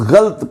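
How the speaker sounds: गलत as ghalt; common mispronunciation. Shown as a demonstration. Teacher showing the popular error, गलत as ghalt. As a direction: say गलत in one syllable, no a after ल. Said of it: "इसको बहुत सारे लोग जो हैं".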